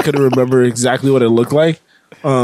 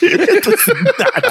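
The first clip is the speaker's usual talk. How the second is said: mock angry; much slower than usual. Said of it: "I don't know why this is angry".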